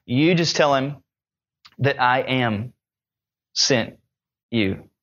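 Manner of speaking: low, slow and hushed, each word weighed with pauses; voice of God. Acted. Preacher voicing God answering Moses, low and hushed. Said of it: "And God speaks and he just says this".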